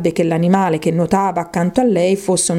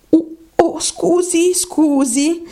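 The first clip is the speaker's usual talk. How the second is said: pitched-up mock cry; cried-out apology; 10 semitones higher, slower than usual. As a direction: blurt out a startled apology. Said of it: "gridò di nuovo Alice".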